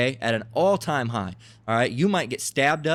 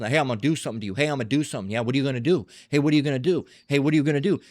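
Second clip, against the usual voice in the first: mildly raised, repetitive taunting challenge; mock yelling; much faster than usual. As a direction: act out someone squaring up for a fight. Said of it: "someone's yelling at someone".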